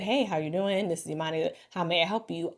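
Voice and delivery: disinterested phone greeting. Shown as a demonstration. Demonstrating the wrong corporate phone tone, disinterested everyday voice. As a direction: answer like you hate your job. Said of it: "I sound disinterested".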